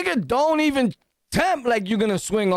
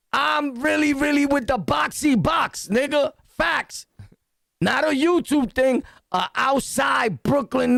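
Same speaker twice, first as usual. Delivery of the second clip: higher, shouting brag; hyped bragging; 5 semitones higher than usual. Real, not acted. Hyping himself up to his viewers, a shouted brag. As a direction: pump yourself up like a street fighter.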